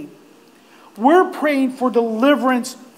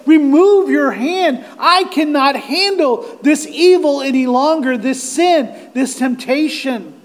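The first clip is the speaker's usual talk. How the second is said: anguished plea; 2 semitones higher than usual. Acted. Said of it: "as Job would say".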